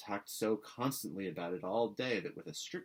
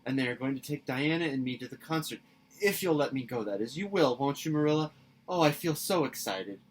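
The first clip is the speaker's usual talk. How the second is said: put-on high, bright girlish pleading; a breathless excited girl begging; an eager girl pleading with her guardian; eager young Anne; 6 semitones higher, 8 dB louder than usual. A narrator's reading.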